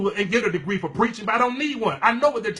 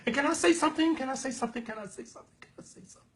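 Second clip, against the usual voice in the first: each can I say something softer until only breath; fading to a whisper; 3 semitones higher, 6 dB quieter, much faster than usual. Real, not acted. Preacher teasing the church, fading into a whisper. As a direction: let the question die away to a whisper. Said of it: "repeats, fading to whisper".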